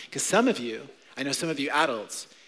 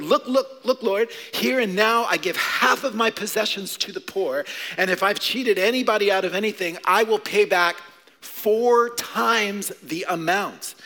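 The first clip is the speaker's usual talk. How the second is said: louder, higher, urgent pledge; excited declaration; 4 semitones higher, 4 dB louder than usual. Acted. Zacchaeus stands up and pledges to the Lord, excited. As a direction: announce it eagerly, drawing out the final promise. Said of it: "he got excited".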